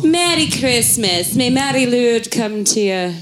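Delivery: Welsh accent, lightly put on; hammed-up Welsh accent greeting; bad Welsh accent. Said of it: "that's not a Welsh accent".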